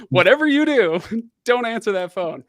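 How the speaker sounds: laughing through the words, high and loud; can't hold back a laugh while quoting himself; breaking up mid-quote. Real, not acted. Retelling advice while laughing.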